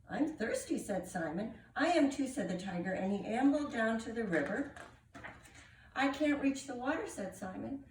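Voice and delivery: animated picture-book reading with character voices; story narration. Acted. Reader telling children of Simon and the tiger, animated story narration. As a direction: read aloud with swooping, expressive pitch.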